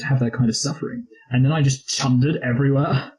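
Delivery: lightly voiced upper-class English gap-year guy; imitating a posh English lad on the phone; posh British accent. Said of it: "That's a great accent".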